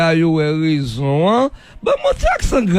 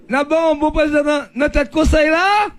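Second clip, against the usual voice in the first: raised, shouting in disbelief; incredulous outcry; 5 semitones higher than usual. Real, not acted. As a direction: call it out, stunned. Host exclaims in disbelief.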